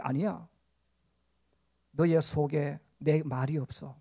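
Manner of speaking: low, hushed, very slow reproof; the Lord's rebuke. Acted. Preacher voices the Lord answering the complainers, quiet rebuke. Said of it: "근데 주님 말씀하시는 거예요".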